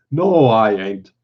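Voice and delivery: mildly earnest, slow denial; slow, simple protest with a touch of sincerity. Acted. Simple man denies being nuts, mildly earnest. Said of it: "Annie explained earnestly".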